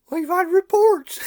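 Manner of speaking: mock-stern policeman insisting. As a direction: pitch jumps up, pressed harder. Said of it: "He says".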